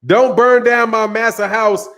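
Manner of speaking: slow, pushed-out plea in a mock servant voice; hammed-up begging the master; slow mock servant pleading for the master's house; mock servile plea. Mocking a fighter as servile.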